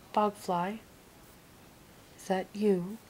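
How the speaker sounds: loud booming call from a cave; ogre calling out. Acted.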